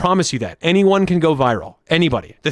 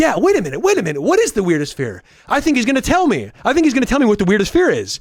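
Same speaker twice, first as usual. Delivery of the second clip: hooked, curious, pitched-up musing aloud; 6 semitones higher than usual. Speaker acts out a viewer watching, doing an impression of a viewer watching. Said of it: "this is my impression of a viewer watching".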